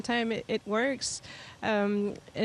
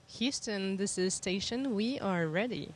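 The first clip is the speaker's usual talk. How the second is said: thin, distant radio transmission; sci fi communicator; 4 dB quieter than usual. Real, not acted. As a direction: voice over a space radio link. Space station radio downlink.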